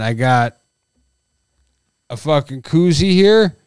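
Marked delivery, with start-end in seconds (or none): 2.1-3.6 tipsy, a bit loose and slurred. Real, not acted. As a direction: talk like a few beers are in. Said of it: "And I'm getting drunk".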